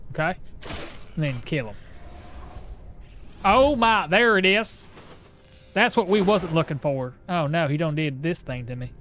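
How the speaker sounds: a hint of a Southern accent over his normal tone. Streamer putting on a Southern accent for chat, lightly. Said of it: "I'm doing a southern accent".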